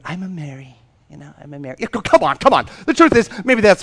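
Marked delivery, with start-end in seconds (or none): 0.1-1.8 smug mock claim. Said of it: "I know some of you are going".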